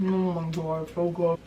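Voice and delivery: talking with mouth full; chewing noisily. Real, not acted. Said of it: "Sorry for chewing with my mouth open".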